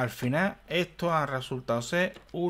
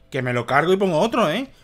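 raised, high-pitched telling-off; exasperated scolding; 7 semitones higher, 4 dB louder than usual. Real, not acted. Player threatening a golem that won't go in, exasperated scolding. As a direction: scold it loudly, stretching out the final insults.

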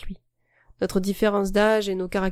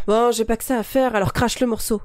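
impatient and sharp, pushed a bit louder; aggressive; 2 semitones higher, 4 dB louder than usual. Acted. Boy to girl, fed up with waiting, aggressive. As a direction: snap at her to spit it out.

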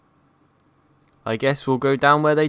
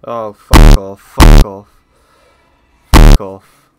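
panicked yelling; 2 semitones lower, 20 dB louder, slower than usual. Real, not acted. Monster attacks.

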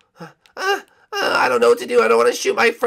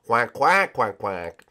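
low mock penguin quacks, sinking lower; 10 semitones lower, slower than usual. Penguin quacks back at friends, low mock quack.

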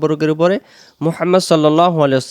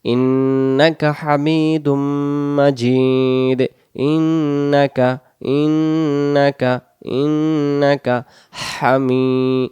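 slow recitation; much slower than usual. Shown as a demonstration. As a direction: recite slowly, stretching vowels. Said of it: "এরপরে আমরা". (ধীর তিলাওয়াত)

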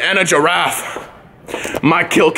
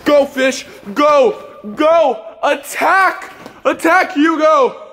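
rising excited commands, higher and higher; mock battle cry; 6 semitones higher, much slower than usual. Kid commanding his toy fish in a Pokemon fight, rising excited shouts. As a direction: cheer on the fish like a Pokemon trainer.

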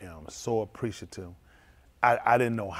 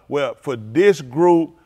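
mock dismissive; 10 dB louder, much slower than usual. Mocks a wrong idea of God.

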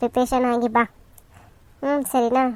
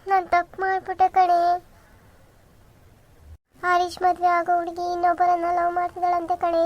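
higher, tearful confession to a friend; 5 semitones higher than usual. Acted. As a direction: let the tears through as you confess. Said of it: "ಯಾಕೆ ಅಳ್ತಿದೀಯಾ?". (ಅಳುತ್ತಾ ಗೆಳತಿಗೆ ನೋವು ಹೇಳಿಕೊಳ್ಳುವುದು)

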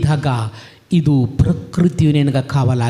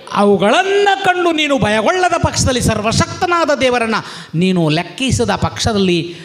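fervent preaching. Acted. Preacher warns the congregation in God's voice, fervent preaching. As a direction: preach it with full force, voicing God's warning.

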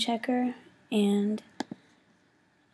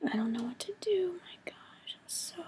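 small, fading voice, much softer; real worry, trailing away to almost nothing; scared; 8 semitones higher, 7 dB quieter than usual. Real, not acted. Student afraid she won't pass, scared and helpless. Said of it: "I'm so scared that I'm not gonna pass".

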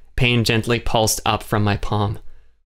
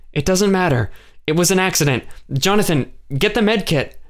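much higher, brisk commands; calm the room, then give the order; a woman soothing everyone and ordering help; urgent Joelle; 8 semitones higher than usual. A narrator's reading. Joelle takes charge after the accident.

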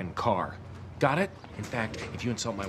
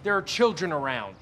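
shocked; 8 semitones higher, 5 dB louder than usual. Acted. Shocked father in schoolyard.

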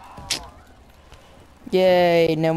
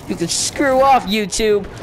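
mock defiant telling-off. Real, not acted. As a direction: cheekily tell YouTube where to go. Telling off YouTube, half joking.

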